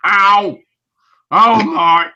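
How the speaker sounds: high, loud pained yelps imitated; startled yelps. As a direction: yelp like you just got hit. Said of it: "I just love your reactions".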